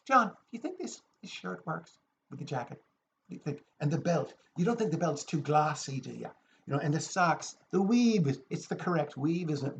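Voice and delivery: fussy friend impression, lightly voiced; Declan. Mimicking a friend asking about his clothes, lightly fussy. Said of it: "And I start doing Declan".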